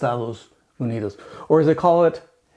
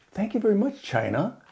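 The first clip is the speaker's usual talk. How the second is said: higher, sugary sarcastic thanks; mock politeness; 4 semitones higher, faster than usual. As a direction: thank them with exaggerated sweetness. Mock thanks addressed to China.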